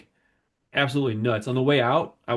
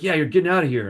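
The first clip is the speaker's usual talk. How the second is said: guard; 4 semitones higher, 4 dB louder than usual. Retold or imitated. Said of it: "he's like".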